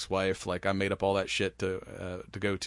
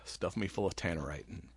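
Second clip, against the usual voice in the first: whispered joke, no voice at all; 5 semitones lower, 8 dB quieter than usual. Real, not acted. To his friend about funeral plans, whispering. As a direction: breathe the words without voice.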